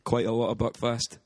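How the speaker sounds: light put-on Scottish accent, rolling the r's; casual chat in a hammed-up Scottish accent. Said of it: "a Scottish accent".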